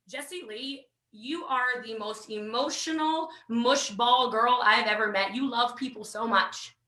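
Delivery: sponsor's voice. Retold or imitated. Sponsor voiced in her story.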